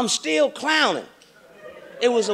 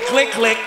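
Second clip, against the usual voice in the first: camera click sounds; 2 semitones lower, 4 dB louder than usual. Retold or imitated. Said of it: "That's when they said".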